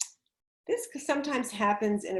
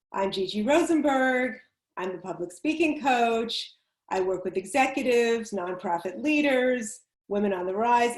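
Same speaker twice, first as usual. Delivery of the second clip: flat, bored recital like a memorized list; bored sing-song list. Shown as a demonstration. Coach demoing a boring introduction, bored sing-song. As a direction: rattle it off as if bored of it. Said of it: "my introduction said as a boring list".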